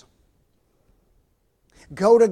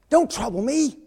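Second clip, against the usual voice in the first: high, raised voice sending someone away; irritated brush-off; 5 semitones higher, 5 dB louder than usual. Acted. Neighbor in bed to man at door, irritated brush-off. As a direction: woken sleeper shouting back, building louder.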